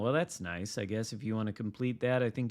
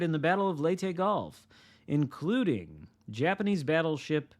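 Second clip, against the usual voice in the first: upbeat announcer read; news read; 3 semitones higher than usual. Acted. Reading patch notes aloud.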